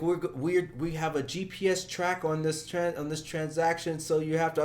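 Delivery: the pushy caller demanding details; scam caller voice. Retold or imitated. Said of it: "He's like".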